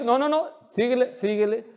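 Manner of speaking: a hint of a pushy friend saying keep going; lightly voiced friend nudging him forward; friend urging on. Other voice urging rider on.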